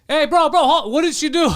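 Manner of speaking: mock friendly ask. Acting out polite questioning.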